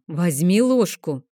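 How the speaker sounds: a mother insisting now, firmly; firm motherly command; stricter demand. Acted. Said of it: "потребовала я строже".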